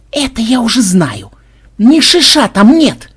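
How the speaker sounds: high, loud, impatient protest; exasperated yelling. A narrator's reading. Ksenobait interrupting Banzai while fleeing, in exasperated high yells. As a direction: cut in high, stretching out the complaint.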